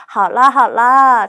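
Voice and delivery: cute, cooing, drawn out slowly. Shown as a demonstration. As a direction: coo it sweetly. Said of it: "이렇게 귀여운 말투". (귀여운 말투로)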